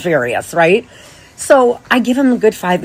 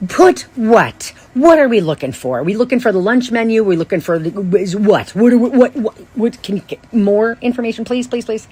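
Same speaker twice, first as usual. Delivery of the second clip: a touch higher, frantic questioning fading to begging; exasperated pleading; 4 semitones higher than usual. Retold or imitated. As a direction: pepper him with questions, then plead. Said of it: "play twenty questions".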